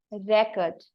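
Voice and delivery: slow demo of "record" as the noun, REC-ord; first-syllable stress. Shown as a demonstration. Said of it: "give the stress on the first syllable".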